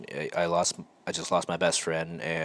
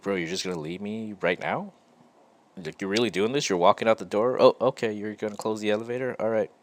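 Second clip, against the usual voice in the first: imitating a baffled coworker, pitched up a bit; confused coworker; 4 semitones higher, faster than usual. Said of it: "very confused".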